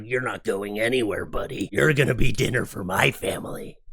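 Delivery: menacing put-on goose voice; mock-threatening mother goose; voicing the goose. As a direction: growl it like a goose protecting its family. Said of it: "just was like".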